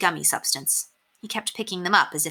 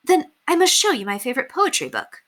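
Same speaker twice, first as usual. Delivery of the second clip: excited; 8 semitones higher, 3 dB louder than usual. A narrator's reading. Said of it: "she said excitedly".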